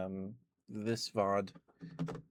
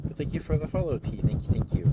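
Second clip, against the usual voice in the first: excited thanks; 8 semitones higher, 10 dB louder than usual. Real, not acted. Sudden loud thanks for follow.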